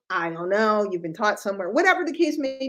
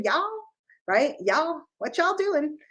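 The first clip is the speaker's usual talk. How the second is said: put-on Southern accent. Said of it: "Now I'm down south talking to everybody".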